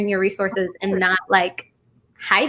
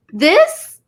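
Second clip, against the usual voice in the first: higher, laughing through the words; real delighted laughter, stretched and slow; 8 semitones higher than usual. Real, not acted. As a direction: laugh as you invite her back, slowing at the end. Host laughing while inviting guest back.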